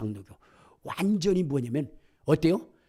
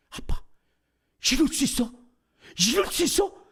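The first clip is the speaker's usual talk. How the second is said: rising higher and higher, amazed; astonished child; 11 semitones higher, 3 dB louder than usual. Retold or imitated. Daughter amazed to her father, rising astonishment. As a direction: retell the kid's disbelief, climbing in pitch. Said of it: "걔가 혼자 놀라고 있더라고요".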